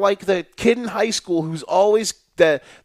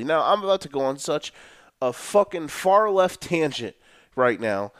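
normal talking voice

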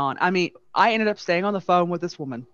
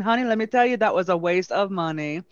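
lightly imitated Southern Belle gossip; Southern Belle accent; faster than usual. Wronged wife gossiping to hotel clerk, lightly imitated Southern Belle accent. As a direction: confide it with a touch of Southern Belle. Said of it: "exactly how this woman talked".

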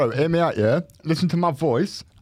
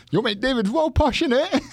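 high-pitched mimicry of his missus; imitated missus; 9 semitones higher than usual. Retelling his missus's remark to friends, high mock-female voice. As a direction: mimic her, pitched well up, rising to a squeal. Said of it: "my missus was like".

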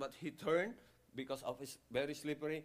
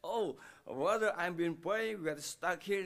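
retold stranded man; 4 semitones higher, 5 dB louder than usual. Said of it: "He said".

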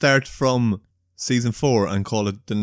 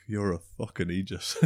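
laughing insult; 11 dB quieter than usual. Retold or imitated. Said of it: "I'm like".

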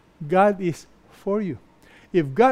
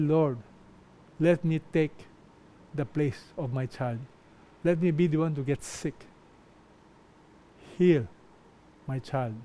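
put-on much softer, lower, pleading for a sick child; tearful prayer; 3 semitones lower, 4 dB quieter than usual. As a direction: retell the prayer as if holding back tears. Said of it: "I cried. I said".

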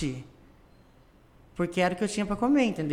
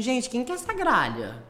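mock diva; 4 semitones higher than usual. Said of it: "falou assim".

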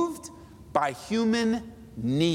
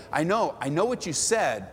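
gentle knowing reply; 5 semitones lower than usual. Retold or imitated. Mercy person answering gently.

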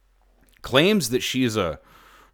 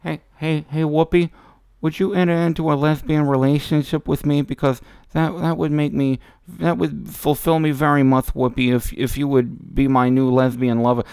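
mock imitation. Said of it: "you could almost hear her want to say".

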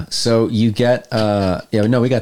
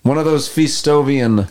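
German radio villain; 3 semitones higher than usual. Acted. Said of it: "I can speak in normal German".

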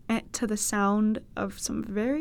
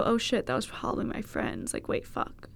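whispered panic; 8 dB quieter than usual. Retold or imitated.

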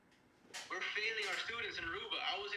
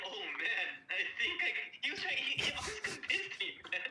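high, laughing in disbelief; 5 semitones higher than usual. Retold or imitated. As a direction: crack up at your own story. Retelling realization, rising.

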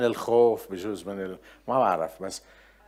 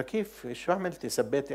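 higher-pitched, surprised questions; retold puzzled questioning; 3 semitones higher, 3 dB quieter than usual. Preacher retelling his questions to a woman facing charges, puzzled. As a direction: re-enact a puzzled friend probing for what happened.

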